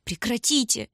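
desperate cry. A narrator's reading. Tanya desperately shouting at Lyutik. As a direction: cry out in despair. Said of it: "отчаянно закричала Таня".

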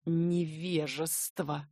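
slow, low disdainful remark; contemptuous. Acted. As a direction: look down on him with scorn. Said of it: "Яша с презрением".

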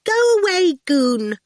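put-on high, loud little-girl demand; a spoilt child ordering him out; shrill bossy child; bratty girl. A narrator's reading.

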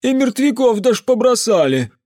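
put-on high, loud superstitious drunken rant; the drunk uncle warning the mage about creatures; ranting drunk peasant. A narrator's reading. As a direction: grumble darkly about the volcanoes.

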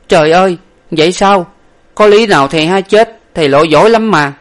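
high, loud shocked protest; disbelieving dismay. A narrator's reading. Servant hearing his master has drowned, disbelieving. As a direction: cry out that it cannot be.

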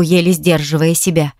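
ordinary delivery, nothing marked

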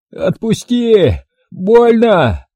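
strangled, wheezing plea, high and pained; hoarse wheeze. A narrator's reading. Bald guard pinned in the door wheezes in pain. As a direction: choke the words out while being squeezed. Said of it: "прохрипела лысина".

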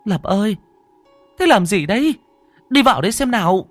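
high, loud urgent call; mother calling. Acted. Mother calls her son in, high and loud. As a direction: call your son from the next room. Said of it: "nghe tiếng mẹ gọi".

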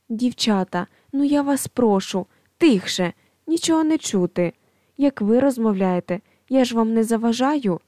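exasperated plea. Acted. Asking office to be quiet.

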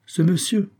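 high, curt retort. A narrator's reading. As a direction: say it briskly dismissive. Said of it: "prononçant ces mots d'un ton bref".

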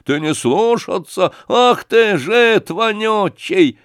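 high, slow, spat-out abuse; angry thug, slow on "жид вонючий"; furious insult. Acted. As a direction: lean on жид with a drawn-out snarl. Thug insults Sashka in anger.

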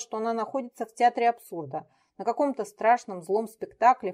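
usual speaking voice

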